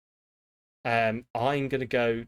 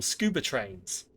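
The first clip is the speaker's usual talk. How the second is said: dramatic title reveal; 3 semitones lower, 3 dB quieter, slower than usual. Shown as a demonstration. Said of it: "That's the name of the film".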